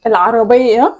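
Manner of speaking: slow, carefully mouthed; slowly. Shown as a demonstration. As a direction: draw each word out for lip reading. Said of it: "بس بالراحة".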